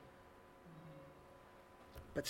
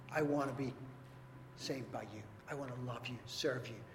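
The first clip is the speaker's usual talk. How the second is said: soft, lowered voice of surrender; earnest prayer; 3 semitones lower, 6 dB quieter than usual. Acted. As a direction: pray it gently, sinking quieter towards the end. Modeling a sinner's prayer to Jesus.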